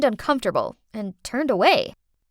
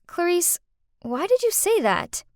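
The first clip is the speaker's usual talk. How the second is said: higher but restrained, mildly calm; calm question; 6 semitones higher than usual. Acted. Carer confronts the girl in her room, calm. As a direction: ask it gently, without any shouting. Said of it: "and calmly said".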